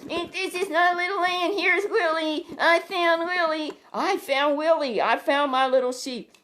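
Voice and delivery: joyful shouting. Acted. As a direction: announce it door to door with joy. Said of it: "he starts shouting".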